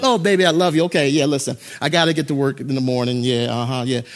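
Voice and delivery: low, lightly voiced lovestruck boyfriend; lovey phone talk. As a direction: murmur sweet talk into the phone. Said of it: "you were on the phone talking to Lori Beth".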